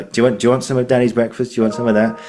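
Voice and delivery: lightly voiced daddy, quick and lifted; a hint of talking to a toddler; parent coaxing child. Daddy offering son his breakfast, lightly coaxing.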